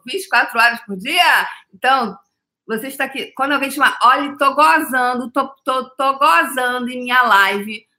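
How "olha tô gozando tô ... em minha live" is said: light imitation of a Bahian accent, higher; a hint of Bahian drawl on the line. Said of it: "assim, bem com sotaque de baiano". (leve sotaque baiano imitado)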